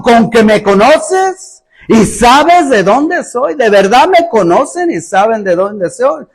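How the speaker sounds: slow, drawn-out mocking question; sarcastic. Preacher reads Jesus's words with exclamation marks, sarcastic. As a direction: stretch out the challenge as if doubting every claim. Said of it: "está hablando de manera sarcástica".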